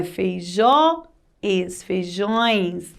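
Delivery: "feijões" slowly split, then whole, ending in nasal ões; nasal plural. Shown as a demonstration. Teacher spelling out the plural for pupils, nasal ões. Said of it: "Continua com o som anasalado".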